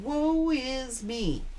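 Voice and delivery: slow, sighing mock lament; drawn-out woe is me. Reader mocking the ex's self-pity, slow mock lament. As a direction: stretch it out like a martyr.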